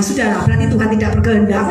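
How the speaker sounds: pious consoling. Retold or imitated. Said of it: "mamanya seorang rohani".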